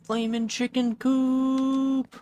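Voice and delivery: high, slow, screeching charge yell; screeching battle cry. Acted. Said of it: "He screeched".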